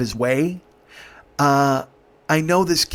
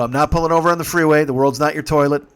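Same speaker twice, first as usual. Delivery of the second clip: firm, raised-voice refusal; retold louder refusal; 4 dB louder than usual. Driver refusing to stop on freeway, firmly raised voice. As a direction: put your foot down loudly.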